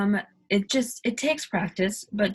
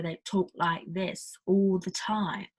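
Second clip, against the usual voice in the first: stereotypical Cockney accent; slower than usual. Shown as a demonstration. Showing learners the stereotype Americans imagine, Cockney accent. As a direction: put on an overpronounced Cockney. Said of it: "is a Cockney accent".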